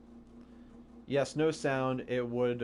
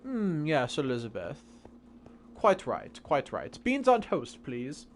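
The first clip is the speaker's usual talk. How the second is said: put-on English accent. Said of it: "Great accent".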